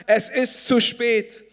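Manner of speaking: loud hopeless voice declaring it too late; discouraging voice. Acted. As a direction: voice of discouragement urging them to turn back. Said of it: "Die erste Stimme sagt".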